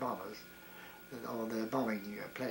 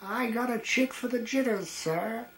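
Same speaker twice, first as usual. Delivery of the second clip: high, loud American drawl answering the major; a cocky American soldier, higher and louder, American accent; 9 semitones higher, 5 dB louder than usual. Retold or imitated. Soldier answers the major from behind in an American accent. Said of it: "in this very American voice said".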